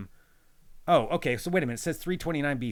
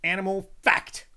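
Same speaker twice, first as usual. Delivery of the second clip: slow, higher title call; announced title; 7 semitones higher, 4 dB louder than usual. Pretend. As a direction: announce the segment. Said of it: "you have to say fact".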